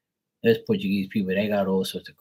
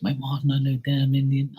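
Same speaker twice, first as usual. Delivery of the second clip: mildly mocked indignation, pitched up; pissed-off mom; 5 semitones higher than usual. Mom objects to son's claim, mildly mock-indignant. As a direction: imitate an annoyed mom objecting. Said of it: "My mom gets pissed".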